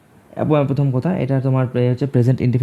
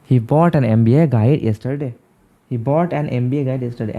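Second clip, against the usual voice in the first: slow, word by word; slow dictation; much slower than usual. Shown as a demonstration. Teacher reads the answer sentence slowly to students. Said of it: "reading the corrected sentence slowly".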